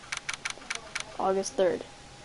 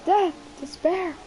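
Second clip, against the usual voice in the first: despairing wail; 11 semitones higher than usual. Acted. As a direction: wail about dying like a drama queen. Client wailing in the lobby.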